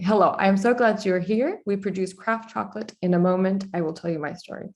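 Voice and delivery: careful, formal read of the line; stiff formal reading. Shown as a demonstration. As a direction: read it like stiff website copy. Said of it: "listen to the change".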